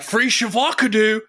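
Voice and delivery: high mimicked meme voice, mispronounced avocado; involuntary-sounding high catchphrase blurt; echoed vine catchphrase. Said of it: "Every time I see an avocado, I'm like".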